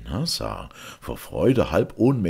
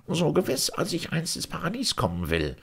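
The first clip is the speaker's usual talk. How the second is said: emphatic oath; 13 semitones higher, faster than usual. A narrator's reading. Vizier swears the purse is his.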